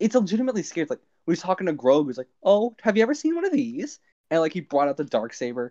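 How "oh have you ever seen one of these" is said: swooping sing-song caretaker voice. Retelling how the villain talks to the child: Moff Gideon babysitter voice. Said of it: "he talked like a babysitter".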